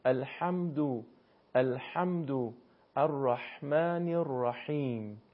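ح in الحمد and الرحمن squeezed in the throat; measured examples, tighten the throat on ح in الحمد; slow teacher's demo of throaty ح in الرحیم; constricted ḥā. Shown as a demonstration. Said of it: "با گرفتگی در حلق".

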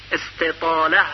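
teacher modelling استطاله; word said alone. Shown as a demonstration. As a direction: pronounce استطاله with the long zad-like stretch. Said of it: "استطاله یعنی جریان صوت".

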